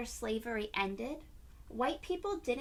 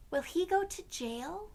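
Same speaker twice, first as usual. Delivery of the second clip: higher, lightly voiced young boy; child voice; 8 semitones higher, 4 dB louder than usual. A narrator's reading. Josh asking his mother about the policeman, higher child voice. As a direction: ask like a puzzled little boy.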